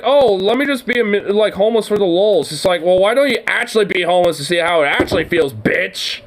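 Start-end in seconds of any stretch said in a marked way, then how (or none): 0.0-2.5 higher, sneering mock voice of a rich guy playing poor; a light, mocking take on a spoiled rich guy. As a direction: parody him as a smug, carefree rich kid. Mocking a rich guy's words.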